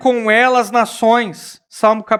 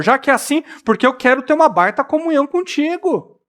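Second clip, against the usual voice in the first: eager Peter; 5 semitones higher than usual. Acted. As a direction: beg to be washed all over, eagerly. Preacher voices eager Peter.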